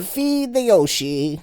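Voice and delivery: lightly high, slow dog voice; cartoon dog. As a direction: slowly voice the dog asking. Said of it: "I vocalize that".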